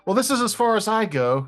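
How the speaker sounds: high, tiny forest spirit voice; squeaky little spirit saying goodbye. Acted. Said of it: "you hear a little voice from behind you".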